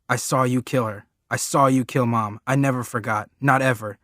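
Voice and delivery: loud, raw shouted accusation; boy screaming at his father that he saw; accusing scream. Acted. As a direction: yell it right in his face. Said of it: "I'm going".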